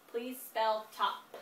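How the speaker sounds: put-on slow, deliberate dictation to a child. Shown as a demonstration. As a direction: spell it out slowly for the learner. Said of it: "first word".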